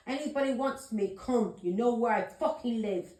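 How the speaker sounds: retold yelling at all comers; retold shout. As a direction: replay the shouted dare, loud and defiant. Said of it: "I was shouting that".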